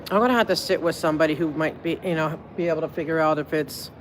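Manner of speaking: talking with a mouthful of cheese; chewing while talking. Real, not acted. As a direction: speak while munching cheese. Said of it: "I'm munching on cheese".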